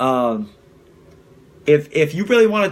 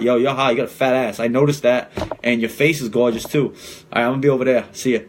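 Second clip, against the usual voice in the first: lower, easy and sincere, no hesitation; casual, sincere pickup line to a girl at the bar; from the heart; 4 semitones lower than usual. Shown as a demonstration. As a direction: say it straight from the heart. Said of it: "right from your heart".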